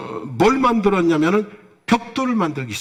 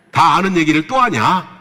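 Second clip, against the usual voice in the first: mock scoff; 2 semitones lower, 4 dB louder than usual. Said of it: "이러고 비웃으시면".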